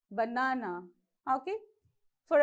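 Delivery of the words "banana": baNAna, weight on the middle syllable; stress on second syllable. Shown as a demonstration. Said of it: "second syllable where you have to stress".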